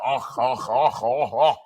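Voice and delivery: low hammed-up moaning oh's; mock Russian moan. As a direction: ham up a lover's moan, low.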